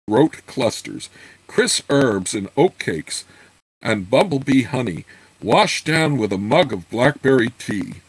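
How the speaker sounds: storybook narration, lilting tune with pauses between phrases; story narration. A narrator's reading. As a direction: read the novel aloud with measured, rising and falling phrases. Reads the novel aloud.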